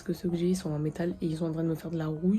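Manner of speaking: rough, worn-out voice from allergies; hoarse voice. Real, not acted. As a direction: speak through a scratchy throat. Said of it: "j'ai la voix défoncée".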